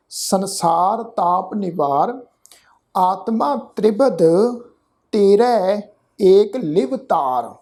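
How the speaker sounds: slow, measured chanting of the verse; scripture recitation. Shown as a demonstration. Teacher reciting the verse for the congregation, slow and measured. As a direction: lay each word out slowly and reverently.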